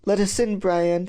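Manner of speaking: mildly cheery dad's request. Acted. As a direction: ask with light good cheer. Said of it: "says my dad cheerily".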